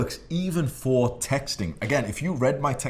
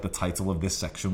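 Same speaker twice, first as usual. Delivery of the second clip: ordinary delivery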